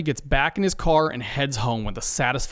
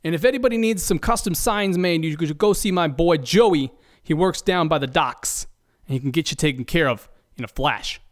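slightly higher wiseguy voice; mobster voice; 3 semitones higher than usual. Acted. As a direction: talk like a cagey mob guy. Host keeps playing mobster Freddy.

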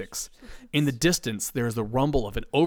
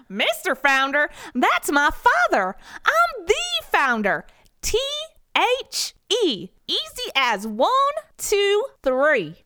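much higher, louder cowboy drawl; cowboy founder; 4 dB louder, slower than usual. Acted. Founder correcting Ed, higher cowboy accent. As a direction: correct him with swagger.

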